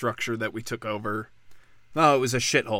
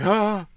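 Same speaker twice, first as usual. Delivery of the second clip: high, drawn-out mock "ah"; mock awed "ah"; 8 semitones higher, 4 dB louder than usual. Someone sent out into an empty field, mock awe. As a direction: sigh out a high, put-on "ah".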